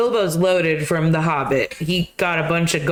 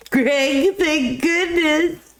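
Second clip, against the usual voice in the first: relieved; 9 semitones higher, much slower than usual. Real, not acted. Relieved to pet.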